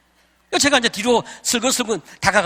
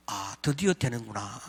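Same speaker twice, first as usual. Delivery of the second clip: hushed, much softer and lower inner gloat; gleeful secret thought; 10 semitones lower, 10 dB quieter than usual. Retold or imitated. Faking a faint, he quietly gloats to himself. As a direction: gloat under your breath, keeping still.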